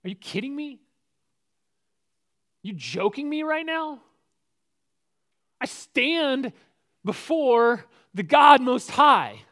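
offended angel rising to a loud, slow declaration; indignant Gabriel. Acted. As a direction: rebuke him, then thunder the last words. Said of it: "Gabriel goes".

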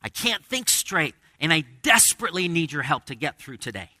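high, loud, pained cry to God; a hurting prayer, pleading for help; pleading lament. Acted. Preacher voicing a groaner crying to God, anguished. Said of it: "Groaning says".

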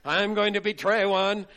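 hammy stage villain cackle, loud; mustache twirling villain. Retold or imitated. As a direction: ham it up like a melodrama villain. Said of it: "twirling his mustache and saying".

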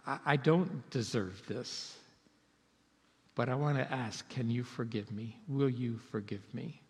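a quiet, humble plea for forgiveness; humble request. Shown as a demonstration. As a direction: ask it humbly and gently. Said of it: "then ask".

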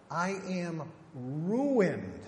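very slow, weighted confession; slow lament. Retold or imitated. Pastor echoing Isaiah's confession, very slow. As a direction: sink into each word.

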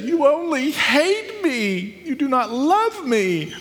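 hammed-up whiny reproach; mock weeping. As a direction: play a tearful wife pleading, pitch way up. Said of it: "wept over him and said".

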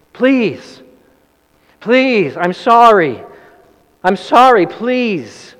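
high, loud, breaking pleas that fall away; desperate pleading. Retold or imitated. Burglar locked in begging the manager, desperate high pleas. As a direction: beg for your life through the bars. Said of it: "began desperately pleading".

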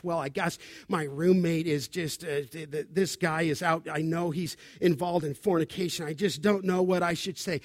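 low, soft, halting voice; lightly voiced hesitant student; hesitant student confiding. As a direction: mumble it reluctantly, unsure what to say.

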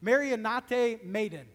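slow, careful Greek: "Marinate maiden"; teaching the Greek words to the congregation, slow and careful; Greek pronunciation. Shown as a demonstration. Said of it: "sound like this in the Greek".

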